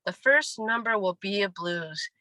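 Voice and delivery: calm certainty on "The first number will be a blues."; sure. Shown as a demonstration. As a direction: state it as plain fact.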